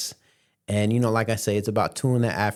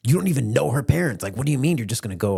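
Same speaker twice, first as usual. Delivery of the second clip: fast, higher imitated objection; exasperated mom; 5 semitones higher, faster than usual. Mom objecting to unknown parents, rushed exasperated imitation. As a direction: rattle off the objection in disbelief.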